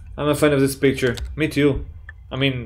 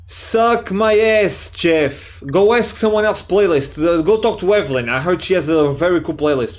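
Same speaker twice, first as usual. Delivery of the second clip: put-on sassy girl voice; 3 semitones higher than usual. Reading Emily's rude reply.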